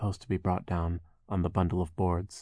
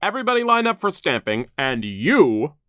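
high, loud barked orders; gruff foreman voice; 8 semitones higher, 7 dB louder than usual. Acted. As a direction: bark orders at the workers.

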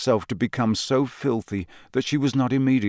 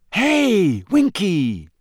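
put-on high, louder boyish call; eager boy calling out; 10 semitones higher, 4 dB louder, much slower than usual. A narrator's reading. Harry eagerly calls to Winky and asks about Crouch. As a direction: call out with a sudden idea.

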